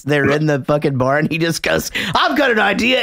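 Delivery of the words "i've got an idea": acted movie quote. Retold movie quote, high voice.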